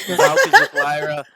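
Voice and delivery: shrill battle cry pitch; high loud shout. Pretend. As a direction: yell it way up high. Player declares, then repeats plainly.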